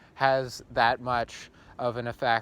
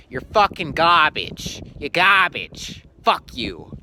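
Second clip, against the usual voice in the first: angry; 2 semitones higher, 7 dB louder than usual. Acted. Insulting a YouTuber.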